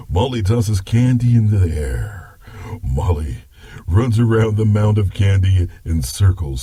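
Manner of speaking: story narration. Acted. Grandpa narrates.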